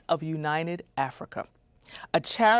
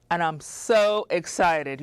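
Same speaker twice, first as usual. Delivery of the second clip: slow, gushing excitement; excited; slower than usual. Real, not acted. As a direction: stretch out the excitement. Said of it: "I'm trying to read this with a straight face".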